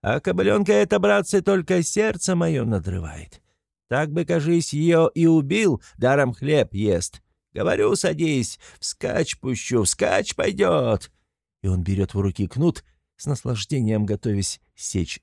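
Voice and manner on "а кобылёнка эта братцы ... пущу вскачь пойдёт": high, slow bragging yell; boastful shouting. A narrator's reading. Mikolka bragging to the crowd about his mare, high yell. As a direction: drag out the drunken boast. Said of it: "кричит он с телеги".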